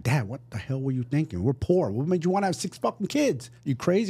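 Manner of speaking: mock exasperation climbing high by the end; retold incredulous protest. Retells challenging his dad.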